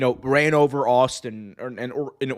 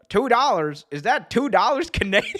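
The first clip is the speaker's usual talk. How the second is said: higher mocking announcer; JR quote; 8 semitones higher than usual. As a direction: deliver the sarcastic zinger. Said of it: "It's like".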